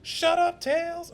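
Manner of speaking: high, loud imitated Sonic shout. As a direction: bark it like an annoyed Sonic. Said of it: "Sonic with nasally voice telling Tails to shut up".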